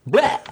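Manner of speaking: goofy gagging blech; blech noise. Pretend. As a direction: spit out a silly blech. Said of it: "this stuff just pops into my head like".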